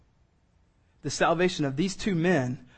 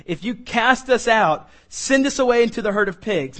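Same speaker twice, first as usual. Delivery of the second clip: begging demons; 5 semitones higher, 4 dB louder than usual. Acted. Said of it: "the demons begged him".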